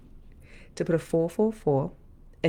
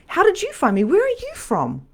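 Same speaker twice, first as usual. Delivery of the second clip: amazed; 13 semitones higher, 5 dB louder than usual. Acted. Mock wondering at clients.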